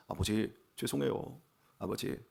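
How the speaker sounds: soft, slow, small voice of a sorry daughter; barely above a whisper, asking forgiveness; meek apology. Retold or imitated. Daughter coming back to apologize to her father, meek and hushed.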